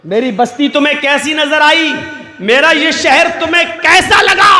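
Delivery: king booming his question. Acted. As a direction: boast about the city at full voice. King proudly asks about city.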